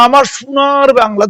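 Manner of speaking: slow imitation of "আমার সোনার বাংলা" with "সোনার" as "শুনার"; mock mispronunciation. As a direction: drag out "আমার সোনার বাংলা" slowly like a non-Bengali speaker fumbling it. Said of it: "সে বাংলা উচ্চারণটা ভালো করতে পারেনি".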